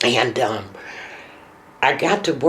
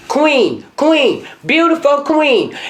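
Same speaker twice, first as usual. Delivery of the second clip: son's sing-song calls; 12 semitones higher, 5 dB louder than usual. Retold or imitated. Mother voices son's loving calls.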